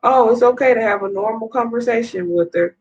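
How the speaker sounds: a hint of sarcastic mimicry; mocking quote. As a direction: lightly mimic his casual dismissiveness.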